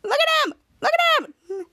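high laughing voice, the words pushed out through laughter; giggling while pointing someone out. Retold or imitated. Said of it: "Shadow and Laughter said".

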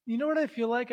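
hushed whisper; library whisper. Pretend. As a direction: whisper it secretively. Whispered banter continues.

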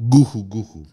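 mock cough spoken as words; low, badly faked cough; fake cough. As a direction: pretend to clear the throat pointedly. Pointed fake cough after quiz question.

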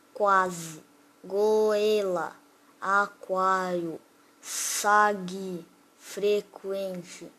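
drawn-out example words with pauses between; slow sounding-out. Shown as a demonstration. Teacher giving rising diphthong examples, slowly sounded out. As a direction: stretch each word, one at a time.

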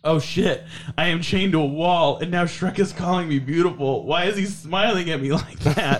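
laughing mock panic. Narrator's inner panic, laughing.

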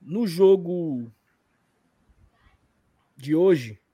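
slow with pause before hoje; long pause before de hoje. Retold or imitated. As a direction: hold a pause after No jogo, then de hoje. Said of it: "o Mano fala assim".

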